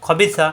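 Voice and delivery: খবিসা with a soft lisped "tha" for সা; soft final consonant. Shown as a demonstration. Teacher models the word, খবিসা with soft সা. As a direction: soften the সা ending of খবিসা. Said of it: "নরম করে".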